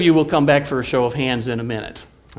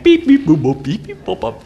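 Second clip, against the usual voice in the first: phone beeps; 2 semitones higher, 5 dB louder than usual. Retold or imitated. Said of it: "that'll mean all the kind of".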